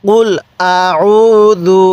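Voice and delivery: drawn-out Quranic chanting; stretched, measured recitation; slow recitation. Shown as a demonstration. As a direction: recite it slowly with tajweed. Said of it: "আরেকবার".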